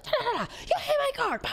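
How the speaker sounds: hammed-up gibberish of angry bystanders; imitating yelling strangers. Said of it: "they're, like, yelling".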